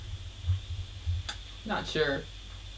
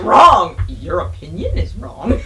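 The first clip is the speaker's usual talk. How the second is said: imitating Tom's verdict; 5 dB louder, slower than usual. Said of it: "Tom's like".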